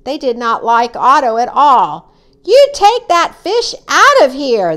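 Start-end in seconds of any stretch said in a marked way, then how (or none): 2.4-4.8 high, loud, indignant order; yelled demand. A narrator's reading. Swimmers who dislike Otto to the boy, yelling. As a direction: yell to get it removed. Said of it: "they yelled".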